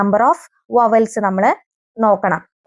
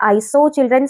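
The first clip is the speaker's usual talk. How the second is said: slow example; much slower than usual. Shown as a demonstration. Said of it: "morphological തെറ്റാണ് ഇവിടെ വരുന്നത്".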